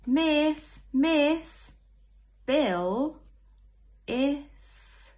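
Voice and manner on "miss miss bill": high, loud calling out; child calling miss. Acted. Teacher reading aloud, voicing a pupil calling miss. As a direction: call for the teacher's attention.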